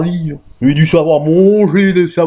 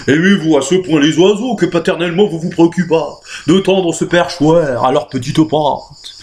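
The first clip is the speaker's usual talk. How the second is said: gracious. Acted.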